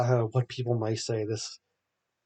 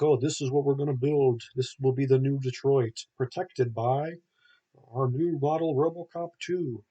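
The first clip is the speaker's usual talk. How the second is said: higher, louder showman presenting the new city; pompous old president; 4 semitones higher, 4 dB louder than usual. Retold or imitated. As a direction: sell the grand plan like a proud old tycoon. Old man president presenting plans.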